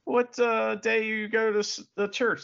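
a hint of chatty small-town questioner; lightly acted questioner. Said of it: "says to an old person".

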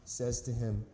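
measured, solemn reading of scripture. Acted. Preacher reading John to the church, solemn and measured. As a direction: read the passage aloud to the congregation.

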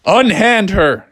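police officer's firm order, lightly voiced; commanding police.

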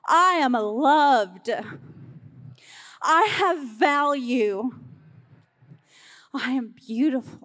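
loud, slow declarations, voice catching with emotion; with conviction. Shown as a demonstration. Pastor leading the congregation in affirmations, slow and moved. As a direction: proclaim each line as if you finally believe it. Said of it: "Say it with conviction".

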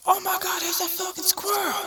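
high, squealing panicked dog voice; frantic little dog. Pretend. Little dog spotting a squirrel, squealing in high panic. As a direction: yelp it out like a dog seeing a squirrel. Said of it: "they're just like".

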